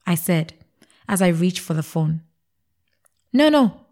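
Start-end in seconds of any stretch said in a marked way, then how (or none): 3.3-3.8 tearful. A narrator's reading. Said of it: "he said with tear in his eyes".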